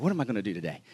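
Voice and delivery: low, soft, underplayed question; subdued retold response; wary reply. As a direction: answer the hype quietly, as if bracing for it. His wary reply to excited missionary.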